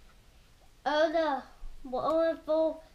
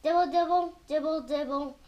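rain pattering. Acted. Reader making Mister Brown's rain sound, playful pattering. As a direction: patter like rain, then let drops fall. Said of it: "like the rain".

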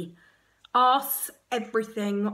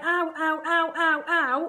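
mock ow; 6 semitones higher, 4 dB louder, slower than usual. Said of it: "in my head".

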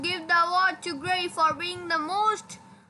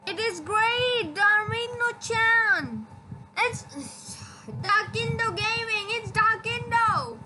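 insistent accusation; 5 semitones higher than usual. Real, not acted. Insisting to friends who disagree.

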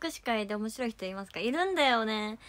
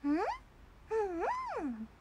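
wordless muffled hums; Nezuko; 8 semitones higher, 5 dB quieter, much faster than usual. Acted. Streamer doing a requested Nezuko, closed-mouth hums. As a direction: hum it with the mouth shut. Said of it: "ねずこやって".

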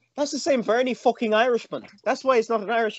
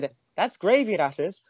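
put-on Coronation Street accent. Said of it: "something from Coronation Street".

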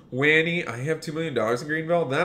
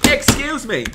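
much higher, louder excuse me, falling at the end; indignant shout; 12 semitones higher, 5 dB louder than usual. Acted. Car wash worker shouting down a line-cutting driver, indignant. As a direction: shout it to stop him cold.

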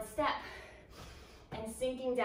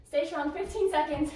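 loud coaching; 4 semitones higher, 7 dB louder than usual. Real, not acted. Coach urging through last set.

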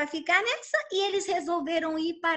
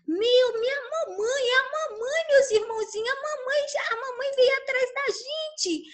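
scared ducklings; 9 semitones higher than usual. Acted. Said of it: "Ficaram até com medo".

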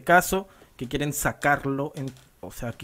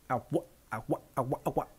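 fast chained agua and efe scratches; vocal scratch routine; 5 dB louder than usual. Shown as a demonstration. Teacher performs a full vocal scratch combo, scratch routine. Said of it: "en el momento de agua".

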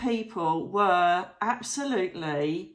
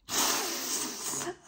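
a high, airy, giddy giggle; high breathless giggle; 11 semitones higher, 5 dB quieter than usual. Real, not acted. Vlogger thrilled she dined with a famous doctor, giddy high giggle. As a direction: giggle up high without voice, delighted. Thrilled about dinner invitation.

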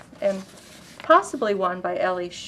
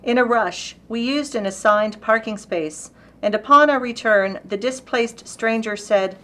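lightly dramatic narrative recitation; poetry reading; 3 semitones higher, 3 dB louder than usual. Acted. Reading Alexie's poem about a parking dispute, storytelling recitation. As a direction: tell the poem as an unfolding incident.

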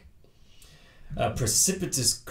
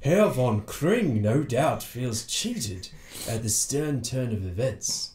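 Sherlock Holmes voice; slower than usual. Acted. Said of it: "that was Sherlock Holmes".

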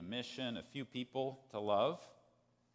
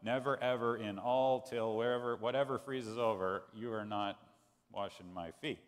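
louder, piling on the nevers; emphatic refusal; 5 dB louder than usual. Retold or imitated. Peter insisting Jesus will never wash his feet, emphatic. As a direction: refuse over and over, getting wound up. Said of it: "it's really emphatic in the text".

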